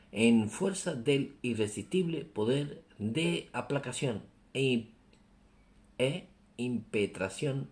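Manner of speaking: measured reading with long pauses. Real, not acted. Preacher rereads a hard passage so listeners follow, unhurried and careful. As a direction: take it gently, phrase by phrase. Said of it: "Vamos a leerlo más despacito".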